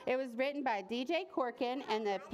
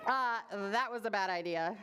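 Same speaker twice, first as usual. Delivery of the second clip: sheepish, pitched down; rueful; 2 semitones lower than usual. Acted. Boy who just provoked a lion, rueful understatement. Boy regrets after roar.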